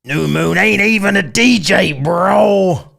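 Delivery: loud, high, hammed-up Texas redneck; Texas redneck accent. Shown as a demonstration. Streamer doing a chat request, hollered Texas redneck American accent. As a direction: holler it like a Texan redneck caricature. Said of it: "you mean Texas redneck bullshit".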